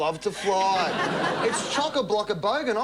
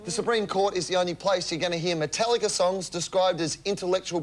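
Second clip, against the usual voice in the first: news segment read. Acted. Reads a news-style comedy segment.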